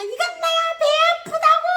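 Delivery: high, loud, tearful whine; whiny wail. Retold or imitated. Sister with a stomach ache wailing back, high and tearful. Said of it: "하는 거예요".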